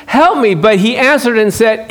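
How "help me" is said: higher, slow, drawn-out plea; a mother's slow, higher plea for help; pleading cry. Retold or imitated. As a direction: beg the Lord slowly. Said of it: "You got that cry".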